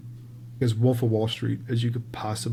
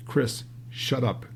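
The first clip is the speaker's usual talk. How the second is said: slow, understated put-down; curt shutdown; 4 dB quieter, much slower than usual. Retold or imitated. CEO silences director mid-pitch, curt and understated. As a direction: shut him up slowly, without raising your voice. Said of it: "Just like that".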